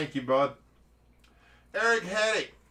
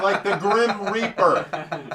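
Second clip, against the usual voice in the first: laughing; 3 semitones higher, 8 dB louder, much slower than usual. Real, not acted. Laughing while explaining the name.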